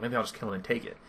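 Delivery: soft, muttered aside; said to himself. Acted. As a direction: drop the volume as if thinking aloud. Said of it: "like, to himself".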